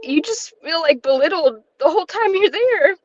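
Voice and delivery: holding back tears while she keeps going; near tears. Real, not acted. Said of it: "I'm really emotional".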